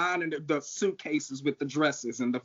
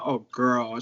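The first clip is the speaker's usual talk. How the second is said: a hint of a soothing older queen, repeated for effect; low, knowing "oh girl"; lightly voiced sympathetic queen; 3 semitones lower than usual. Drag queen repeating how the comforting queen said it, low and soothing. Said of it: "That's how she said".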